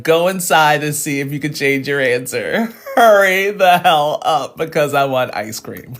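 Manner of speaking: urging her friend through real laughter; laughing. Real, not acted. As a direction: hurry her along while cracking up.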